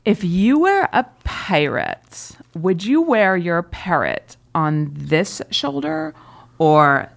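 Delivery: slow, drawn-out mock creepy line; lightly voiced awkward guy; date's pickup line to her, slow mock voice; imitating the date's pickup line. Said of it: "he goes".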